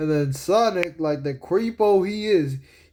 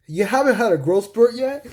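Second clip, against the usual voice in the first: raised, climbing cartoon question; Knuckles; 7 semitones higher, 4 dB louder than usual. Knuckles quizzing Sonic about growing, raised cartoon voice. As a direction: ask it high, in mock disbelief. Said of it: "Knuckles goes like".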